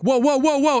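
high, quick warning whoas; mock alarmed whoa. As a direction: imitate teammates stopping a blunder. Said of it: "and they're like".

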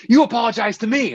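high, loud demanding New York guy; tough New Yorker. Retold or imitated. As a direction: order it like a touchy New Yorker. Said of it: "the quintessential New Yorker kinda guy".

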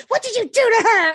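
high, concerned stranger voice; mock alarmed stranger asking what happened; nosy lady. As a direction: play the worried lady who butts in. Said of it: "this lady".

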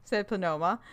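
ordinary talk, nothing marked

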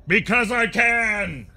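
high slow mocking gloat. Caster answers the dying man, slow mocking gloat. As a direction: drawl the taunt out slowly.

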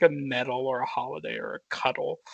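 lightly put-on London accent on the quote; a hint of a British voice. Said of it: "You sound like you're from London".

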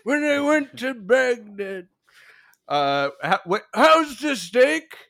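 put-on old-timey voice. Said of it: "answer in an old-timey voice".

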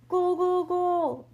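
high, loud goal chant; screamed cheer. A narrator's reading. Soccer kids racing round the field, screamed cheer. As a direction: yell it out high and held like a soccer crowd. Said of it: "they screamed".

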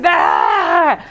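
mock hysterical yell. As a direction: burst in like a hysteric. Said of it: "histérico". (grito histérico fingido)

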